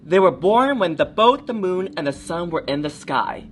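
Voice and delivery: put-on lively read-aloud for children; storybook reading. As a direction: tell it like a bedtime story. Reads picture book to kids.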